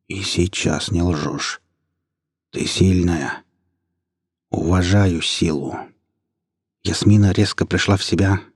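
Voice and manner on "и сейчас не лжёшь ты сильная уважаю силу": a wild leader granting grudging respect, drawn out; slow pack leader creature. Acted. Pack leader answers Yasmina.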